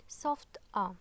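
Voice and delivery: "ah" as a plain open vowel, no hard attack; soft ah. Shown as a demonstration. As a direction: let "ah" out without force. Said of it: "Without it".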